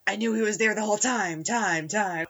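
lightly imitated echo, repeating the last word; echoey voice. Host mimics the movie hero's inner thoughts, echoey voice. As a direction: trail the final word off like an echo. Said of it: "in his, you know, echoey voice".

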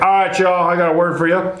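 hammed-up gibberish, fast; mock speaking in tongues. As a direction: babble nonsense like a preacher on the mic. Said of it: "that's what I was doing".

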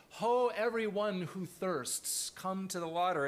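a hint of solemn King James cry; King James proclamation. Shown as a demonstration. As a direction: call it out like old scripture. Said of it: "maybe that sounds familiar".

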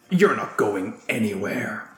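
pin them down with words; menacing man voice. Acted. Man grips kids, threatens.

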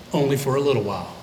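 fast, dry remark; said fast, almost under the breath; quick throwaway aside. Shown as a demonstration. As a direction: toss it off quickly. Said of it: "repeated line".

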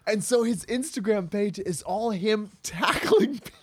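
laughing through it, pitch jumping up; giggling the punchline out; can't hold back a laugh while telling it. Real, not acted. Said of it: "Oh, my God".

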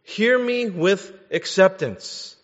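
preacher voicing Jesus with force; pleading loudly. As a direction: urge them to really listen. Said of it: "He's saying".

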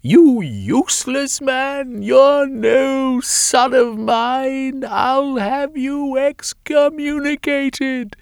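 very high, slow, loud shriek; mother shrieking. A narrator's reading. Mother shrieking curses up at her escaping son. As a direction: shriek it in outrage. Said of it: "she shrieked".

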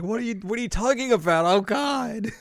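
high, quick, panicky babble; mock flustered confusion. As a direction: stammer it fast and high. Flustered reply to the accusation.

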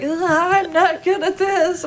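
mock self-doubt. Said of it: "it's like".

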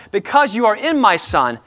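a hint of a tender heavenly father; voicing God the Father. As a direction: speak as the Father over his child. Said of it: "go to the Father's voice and says".

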